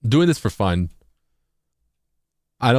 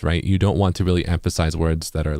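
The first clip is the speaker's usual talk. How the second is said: ordinary talk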